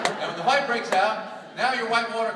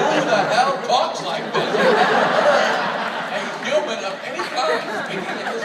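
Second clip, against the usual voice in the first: loud, incredulous protest; exasperated outburst; 4 semitones higher, 6 dB louder than usual. Acted. Husband protests his wife's imitation, exasperated outburst. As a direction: burst out loudly at the absurd impression.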